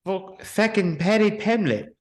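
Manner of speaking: Irish accent. Shown as a demonstration. Quoting a name to a friend, Irish accent. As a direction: say "fucking" as Irish "feckin". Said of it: "actually Irish".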